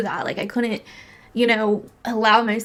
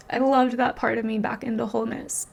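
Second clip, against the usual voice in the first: tender repeat; 2 semitones higher than usual. Real, not acted. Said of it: "repeats it, laughing".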